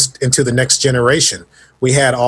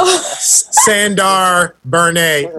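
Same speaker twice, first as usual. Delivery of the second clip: slow, drawn-out mock alien name, pitched higher at the start; Bernie Sanders alien; 4 semitones higher, much slower than usual. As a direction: spell the name out slowly like a wink at Bernie. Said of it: "a Bernie Sanders type alien".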